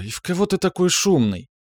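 high-pitched woman's mild scolding; mildly disgruntled, high female scolding; displeased reproach. A narrator's reading. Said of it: "с неудовольствием попеняла Альбина".

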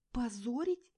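high, loud indignant question; loud outraged echo; outraged repeat. A narrator's reading. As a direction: throw the word back at him. Stunned wife repeats his word.

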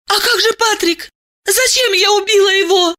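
anguished cry. A narrator's reading. Diana confesses in tears, high and crying.

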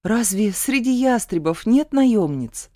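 plain reading voice

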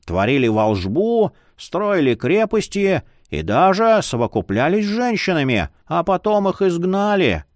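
lightly voiced jolly old man; a creaky cheerful old scholar.

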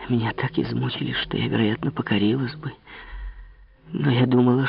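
put-on soft, earnest young woman's voice; Marie, soft confession. Marie confesses to the king, soft earnest voice. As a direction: confide it softly, lightly voiced. Marie explains her resistance.

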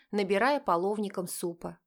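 ordinary delivery

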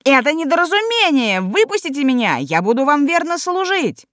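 high, frantic begging; pleading wail. A narrator's reading. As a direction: wail for mercy. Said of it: "кинулся к нему с воплем".

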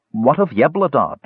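narrated worried begging. A narrator's reading. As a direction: beg for news. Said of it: "begged Mertwig".

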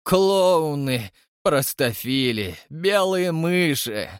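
slow, scornful insults; contemptuous villain. Acted. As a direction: spit out each insult. Koshchei insults crowd.

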